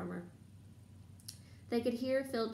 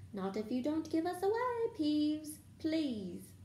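high, wheedling plea; pleading; 7 semitones higher than usual. A narrator's reading. Student begging the poltergeist not to tell, pleading. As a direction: plead with a drawn-out please.

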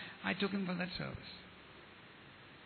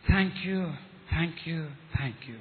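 heartfelt thanks; 5 semitones lower, slower than usual. Retold or imitated. New convert embraces his brother in gratitude, heartfelt thanks.

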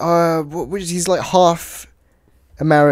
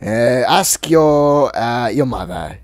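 dad; 4 semitones lower than usual. Acted. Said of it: "your dad".

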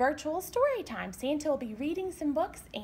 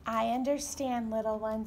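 tender mommy; 3 semitones lower than usual. Acted. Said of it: "said his mommy with a kiss".

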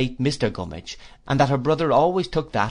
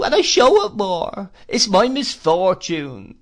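high, loud plaintive widow's whine; Missus Gummidge; 12 semitones higher, 7 dB louder than usual. Acted. Mrs Gummidge pities herself at dinner, high whine. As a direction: whimper it like a self-pitying old widow.

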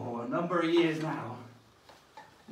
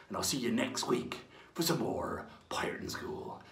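whispered goodbye; 2 semitones lower, 9 dB quieter than usual. Acted. Signing off to children.

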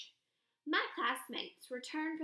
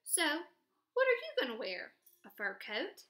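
teasing; 2 semitones higher than usual. Acted. Aldo's joking question.

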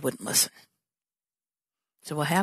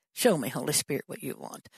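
fading prayer; 6 semitones lower, 6 dB quieter than usual. Pretend.

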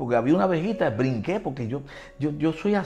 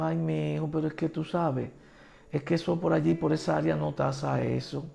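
softer, slowing condescending refusal; gentle letdown; 5 dB quieter than usual. Retold or imitated. Bank woman doubting the property's appraisal, imitated soft reluctance. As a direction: imitate someone letting him down softly.

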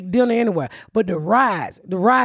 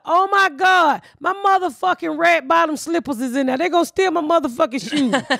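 retold panic; 4 semitones higher than usual. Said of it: "I was like".

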